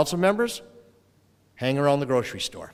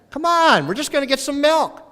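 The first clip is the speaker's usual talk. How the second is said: much higher, laughing plea; pleading dad; 13 semitones higher, 6 dB louder than usual. Retold or imitated. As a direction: wheedle the reluctant daughter.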